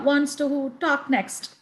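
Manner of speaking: ordinary talk, nothing marked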